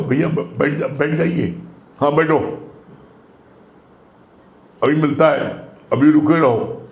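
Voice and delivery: gently courteous "भैया, बैठ जाइए"; respectful, polite. Retold or imitated. Preacher mimics politely welcoming an honoured guest to sit. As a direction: invite him kindly, with respect. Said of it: "आपकी tuning बताती है".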